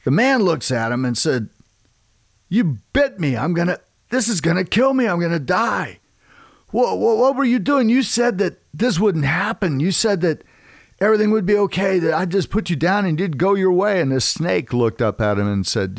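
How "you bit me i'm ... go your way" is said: high-pitched acted panic, voice jumping up; panicked farmer. Bitten farmer confronts the snake that betrayed him, panicked. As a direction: protest in alarm, pitched way up.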